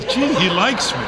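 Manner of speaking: bright, naive "gee" voice; flattered voter. Retold or imitated. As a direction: play the easily flattered citizen. Voter quoted as flattered by politician.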